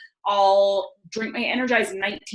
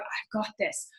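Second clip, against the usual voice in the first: soft, understated self-affirmation; author's inflection; 11 dB quieter, slower than usual. Retold or imitated. Reader echoing the author's mantra, soft inflection. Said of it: "that's exactly how he says it".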